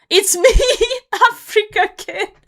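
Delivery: shrill, super-loud, high-pitched yell. Retelling how a man shouted his in-game name at a pub, imitating Africa Kid yelling. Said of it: "He yells this like super loudly".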